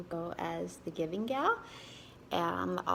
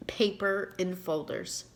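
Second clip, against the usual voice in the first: reading her own book aloud, a touch livelier than her chat; story reading. Acted. Author reading her story to viewers, expressive narration. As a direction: read the story to your viewers with gentle storytelling lift.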